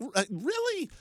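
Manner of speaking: high, slow disbelief, each word stretched; incredulous. Retold or imitated. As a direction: scoff at how closely he checks. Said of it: "the other part of me is like".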